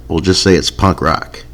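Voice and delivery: quiet aside. Shown as a demonstration. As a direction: mutter it again under your breath.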